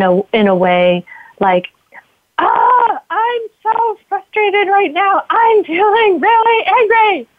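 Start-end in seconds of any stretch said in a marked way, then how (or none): 2.4-7.3 high, slow venting of frustration; skillful yelling demo. Shown as a demonstration. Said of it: "what I mean about yelling skillfully".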